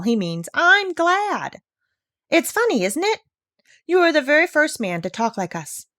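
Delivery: put-on a proud old bird who thinks people are fools; indignant old parrot.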